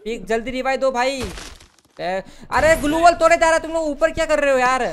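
loud, high panicked yelling; panicking gamer. Real, not acted. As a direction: yell at teammates in panic. Wall breaking, panicked shouting.

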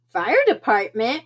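"Fire department?" rising at the end as a question; "Fire department?" lifted into a query; questioning repeat. A narrator's reading. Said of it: "repeated Jilly Boo".

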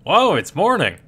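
loud, high, swooping whoa; amazed exclamation. Acted. Character finding it is already morning, amazed exclamation. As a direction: exclaim it big with swooping pitch.

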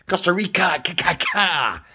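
high-pitched, playful echo of the name; playful exaggerated echo. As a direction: toy with the name up high, stretching the ending. Playfully echoing the place name.

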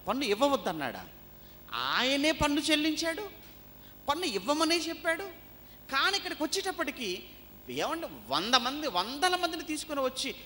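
high, insistent pulpit voice; forceful preaching. Real, not acted. Preacher rebutting the tax accusation, forceful.

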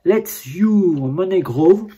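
reads the English slogan slowly, word by word; slow careful reading. Real, not acted. Reading the packaging slogan aloud to viewers, slow and careful. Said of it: "mon anglais n'est pas au top".

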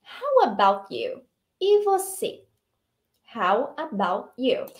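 slow, stretched question; slow model reading. Shown as a demonstration. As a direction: model it slowly for repeating. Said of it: "Nós usamos essa frase aqui".

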